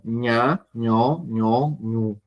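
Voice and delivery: "Ña, ño, ño, ñu" each begun with a Spanish ñ; Spanish ñ sound. Shown as a demonstration. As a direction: pronounce "Ña, ño, ño, ñu" with a palatal n. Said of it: "como la ñ en español".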